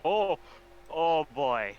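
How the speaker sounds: normal talking voice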